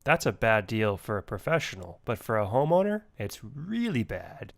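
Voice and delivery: a touch of a pompous know-it-all. Acted. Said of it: "practicing my pompous ass voice".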